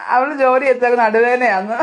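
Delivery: chuckling through the words; amused laugh while explaining. Real, not acted. Teacher laughing at the little boy's answer, amused.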